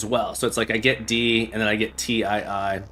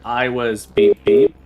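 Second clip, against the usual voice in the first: vocal beeps; 8 dB louder, slower than usual. Shown as a demonstration. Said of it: "let's see if I can remember it".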